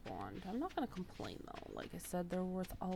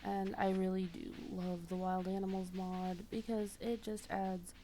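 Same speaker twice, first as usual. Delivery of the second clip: stuffy nose. Real, not acted. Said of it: "I am really stuffed up today".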